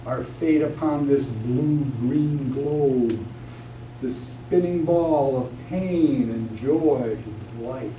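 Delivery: measured, reverent invocation of the moon; solemn poem recitation. Acted. Poet recites invocation from epic poem.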